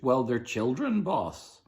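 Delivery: a touch of a cheeky pirate; pirate crew member joking about eating the children; lightly voiced pirate. A narrator's reading. Pirate argues with boss.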